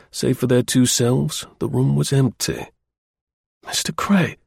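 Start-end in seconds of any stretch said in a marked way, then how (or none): 3.7-4.4 high-pitched, astonished gasp of a name. A narrator's reading. Young man coming round from a faint, gasping. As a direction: gasp it out in amazement. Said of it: "he gasped".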